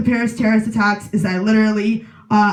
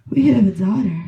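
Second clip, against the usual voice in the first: put-on German accent; 2 semitones lower, faster than usual. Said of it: "in his accent that I can't do".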